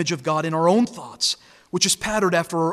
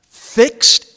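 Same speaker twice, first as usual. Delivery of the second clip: "fixed" punched much louder and higher; emphatic fixed; 6 semitones higher, 10 dB louder than usual. Acted. Preacher telling listeners judgment day cannot move, punching fixed. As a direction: slam the word "fixed" as an unmovable fact.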